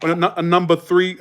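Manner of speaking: hammed-up Boston order-taker; dropped R's, thick Boston vowels; Massachusetts accent. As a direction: imitate a New England drive-through accent. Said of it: "they talk like this".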